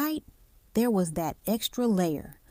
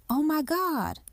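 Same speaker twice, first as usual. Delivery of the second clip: high, gasping alarm; gasped shock; 8 semitones higher than usual. A narrator's reading. Wife hearing of the accident, gasping. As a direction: catch your breath in shock. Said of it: "the woman gasped".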